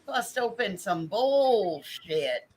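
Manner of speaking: high, excited call to grab recordings; hype call. Acted. Streamer rallying viewers, excited high call. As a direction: whip the chat up. Hyping chat for the clip.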